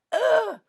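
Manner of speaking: high, loud "ugh" imitating a grossed-out student; a short burst of mock revulsion; disgusted groan. Acts out student's disgusted reaction.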